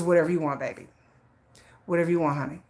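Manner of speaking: mild imitation of an agreeable husband; lightly voiced, soothing give-in to a wife; easygoing husband. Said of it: "never raised his voice to me ever".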